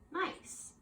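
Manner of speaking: whispered praise. Real, not acted. Quiet praise to class.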